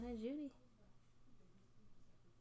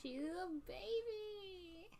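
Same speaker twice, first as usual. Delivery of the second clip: put-on cooing baby talk; 10 semitones higher, much slower than usual. Cooing about baby villager.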